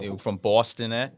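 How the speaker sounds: playful Boston twang on a question; light put-on Boston accent; mock Boston accent. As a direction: tease like a Bostonian. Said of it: "Does he got an accent too".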